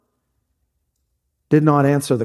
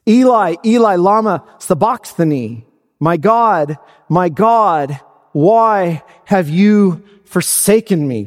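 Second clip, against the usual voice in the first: mildly raised, slowing cry from the cross; 3 semitones higher than usual. Retold or imitated. Preacher voicing Jesus on the cross to his Father, crying out. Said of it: "Jesus cries out".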